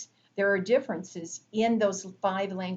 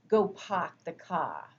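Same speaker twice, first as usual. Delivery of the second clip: clipped final R, Kennedy style "Go park the car"; New England accent. Shown as a demonstration. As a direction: drop the R in "car" like a Boston speaker. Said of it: "you might hear something like".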